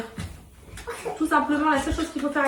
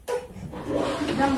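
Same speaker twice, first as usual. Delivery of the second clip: whispering; 5 dB quieter than usual. Real, not acted. Mother whispering at bedtime.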